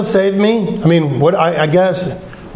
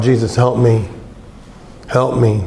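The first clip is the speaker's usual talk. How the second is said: crying out, lower and slower; 8 semitones lower than usual. Retelling needing strength to stand up, the speaker reenacts crying out. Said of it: "And I cried out".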